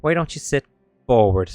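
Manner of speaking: a ghost compelling obedience; eerie command. Acted. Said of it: "forward echoes in your brain".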